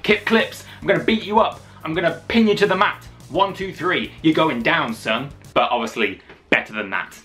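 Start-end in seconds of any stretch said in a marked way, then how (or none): 0.0-5.3 wrestling promo. Shown as a demonstration. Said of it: "So, like".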